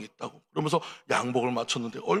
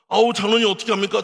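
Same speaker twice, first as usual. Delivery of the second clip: grieving pastor; 6 semitones higher, 6 dB louder than usual. Acted. Young pastor grieves for elder.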